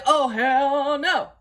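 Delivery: "Oh, hell no" stretched slow and a little loud; slow, sassy "Oh, hell no"; drawn-out refusal. Retold or imitated. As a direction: drag out each word of "Oh, hell no". Refusing the diaper.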